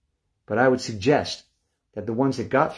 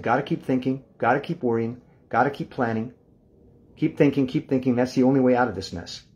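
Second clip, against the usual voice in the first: anxious inner voice; 3 semitones higher than usual. Retold or imitated. His tense side arguing during a sleepless night, pressing and urgent. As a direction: keep hammering it like a worried mind that won't stop. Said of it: "The contracted part of me said".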